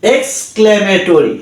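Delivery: exclamatory said very slowly, falling; slow careful word. Shown as a demonstration. Tutor models English pronunciation for learners, very slowly. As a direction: stretch exclamatory out, each syllable clear. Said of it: "That means".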